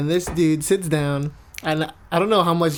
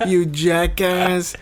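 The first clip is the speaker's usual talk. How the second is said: laughing tease; 3 dB louder, slower than usual. Real, not acted. Teasing friend while laughing.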